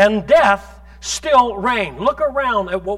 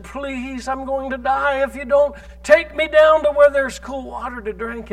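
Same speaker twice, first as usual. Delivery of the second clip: a mild mock whimper, begging; pathetic whimper; 3 semitones higher than usual. Snake begs the boy not to let it die, mild whimper. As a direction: whine the plea pitifully, softening at the end. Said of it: "The most pathetic whimper".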